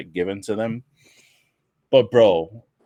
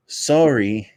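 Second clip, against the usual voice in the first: slow, louder mock Japanese-accented English; imitated Japanese accent; 3 semitones higher, 5 dB louder, much slower than usual. Wrestler dodging the interviewer's question, imitated Japanese accent. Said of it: "he literally goes".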